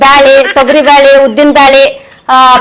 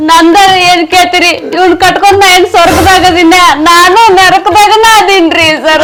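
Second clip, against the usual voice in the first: hammed-up weeping complaint; crying; slower than usual. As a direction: wail the last words out long. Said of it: "ಅಳಬೇಡ, ಅಳಬೇಡ".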